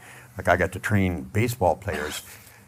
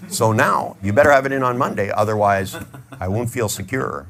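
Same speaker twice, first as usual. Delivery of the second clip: stern boss; 2 semitones higher, 5 dB louder than usual. Retold or imitated. Boss pressuring employee.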